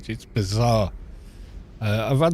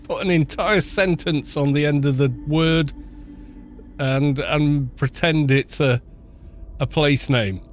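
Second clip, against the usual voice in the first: lightly hammed-up Victorian gent; mocking Victorian; 2 semitones higher than usual. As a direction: sneer at the silly locals. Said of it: "the Victorians going".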